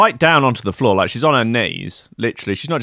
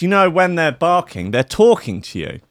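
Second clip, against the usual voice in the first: higher earnest hippie voice, easing down; imitating the mad woman again; 8 semitones higher than usual. Retelling the café woman's dog claim: high mock earnestness. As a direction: repeat her lecture in a mock earnest tone. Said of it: "She goes".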